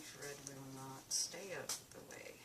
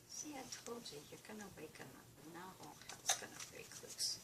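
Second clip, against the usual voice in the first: whispering over a crib; 6 dB quieter, faster than usual. Real, not acted. Cat sleeping, don't wake him.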